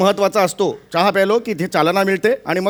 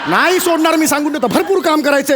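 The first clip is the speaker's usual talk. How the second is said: high, gloating refusal; gleeful boss; 8 semitones higher than usual. Acted. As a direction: crow it over the staff. Boss gloats over staff.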